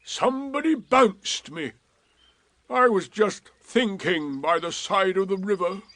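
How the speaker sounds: lightly voiced gloomy donkey; slow, dry and put upon; Eeyore. A narrator's reading. Eeyore correcting his friends, lightly voiced and dry.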